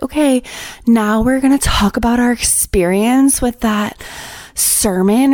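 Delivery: lightly mocking lady in charge; mock group leader. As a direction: put on a perky leader's announcing voice. Imitating the lady leading the groups.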